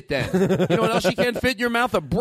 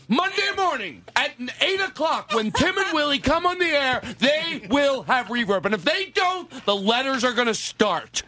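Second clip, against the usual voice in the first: mock ultimatum; 6 semitones higher than usual. Ultimatum to station.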